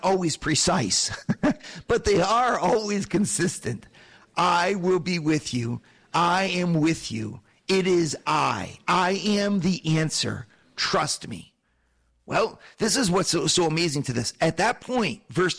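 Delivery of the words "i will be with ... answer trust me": slow, steady promise; calm divine reassurance. Retold or imitated. God answering our fearful questions, slow and reassuring. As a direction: speak it slowly as God comforting. Voicing God's consistent answer.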